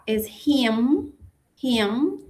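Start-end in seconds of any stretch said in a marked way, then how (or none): 1.6-2.2 "him" with a throaty J-like h at the start; him with a J sound. Shown as a demonstration. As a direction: breathe a rough h into "him". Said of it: "como con una J al inicio".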